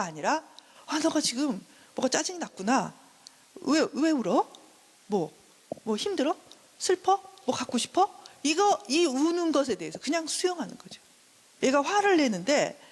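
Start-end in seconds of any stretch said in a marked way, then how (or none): 0.9-8.1 put-on soothing, rising questions to a child; gently asking what's wrong; accepting mother.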